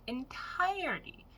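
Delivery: "Entirety" stretched out slow and high; slow, high, pointed "Entirety"; emphatic repeat. Real, not acted. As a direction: draw out "Entirety" on a high, falling tune.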